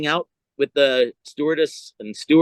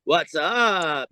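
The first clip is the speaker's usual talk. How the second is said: lightly imitated surfer-comic greeting; a hint of a comic's catchphrase voice; Pauly Shore; slower than usual. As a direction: toss out a stretched catchphrase in mild imitation. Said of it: "I wanted to be like him".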